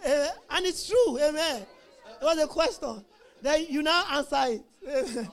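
slow words through real laughter; laughing. Real, not acted. Preacher amused by his own story to the congregation, laughing. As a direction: draw the words out while chuckling.

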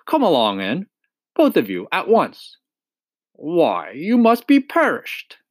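kindly badger, rising high at the end; a lightly voiced fatherly badger; warm welcome. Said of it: "exclaimed the Badger in quite a different voice".

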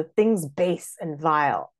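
slow line leaning on "base"; stress on base. Shown as a demonstration. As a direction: give "base" the weight over "things". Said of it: "I would choose base".

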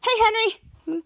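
slow, high put-on girl voice; drawn-out sweet hello from Charlotte. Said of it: "Charlotte's like".

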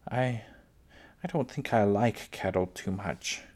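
understated, hesitant tremble; trembling voice. Acted. Laura confessing to Pa about cattle, slight tremble. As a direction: falter slightly on the first word. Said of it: "There was a tremble in her voice".

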